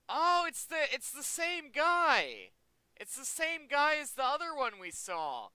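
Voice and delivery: high, loud burst of delighted surprise; thrilled to spot a familiar sight; excited recognition. Real, not acted. Recognizes the same guy again.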